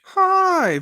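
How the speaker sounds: high, bright-energy hello; excited greeting. Real, not acted. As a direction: burst in with a big hi. Enthusiastic podcast host greeting.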